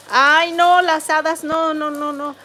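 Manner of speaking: sudden loud "ay, no" then trailing repeated noes; startled protest, rising then fading; dismayed outcry. Real, not acted. Scolding a rude chatter, dismayed outcry.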